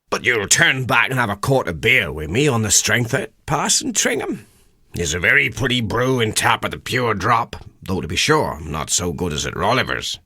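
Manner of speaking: a humble country haggler, half polite, half puzzled; rustic old countryman. Acted. Haggler Durbeyfield questions the parson on the road, rustic and puzzled.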